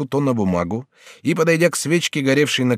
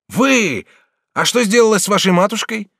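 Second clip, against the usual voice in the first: higher, louder urgent question; astonished; 9 semitones higher, 4 dB louder than usual. Acted. The regent urgently asks Bathilde about her mother. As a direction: press her for the mother's fate.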